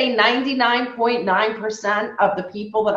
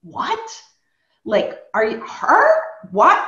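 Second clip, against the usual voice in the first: much higher, shocked questions; stunned disbelief; 4 semitones higher, slower than usual. Retold or imitated. Husband Rob hearing the news, jumping up in shocked disbelief. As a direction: Rob can't believe what he's hearing. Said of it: "He was like".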